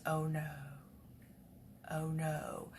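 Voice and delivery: hushed, sinking dread; imitated worried cat. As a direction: voice a cat's soft, dawning dismay. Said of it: "I could see on her face".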